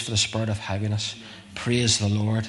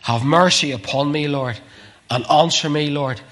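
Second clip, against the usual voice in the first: raised, louder plea for mercy; crying out; 4 semitones higher, 4 dB louder than usual. Retold or imitated. Preacher voicing David's prayer to God, crying out. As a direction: cry out to God in urgent prayer. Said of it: "crying on to God".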